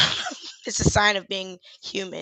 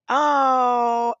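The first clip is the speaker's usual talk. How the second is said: real crying sound; tears breaking through. Real, not acted. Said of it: "you got me in here about to cry".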